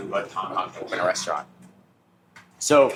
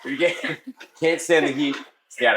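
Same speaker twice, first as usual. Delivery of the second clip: laughing through the line; giggling as he says it; 4 semitones higher than usual. Real, not acted. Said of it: "let's try that again".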